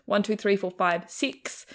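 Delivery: counting in an exaggerated Kiwi accent, slowing down; mock Kiwi accent. Australians teasing a Kiwi student, mock Kiwi accent counting. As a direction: mimic how Australians hear the Kiwi accent. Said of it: "teased a lot ... fish and chips".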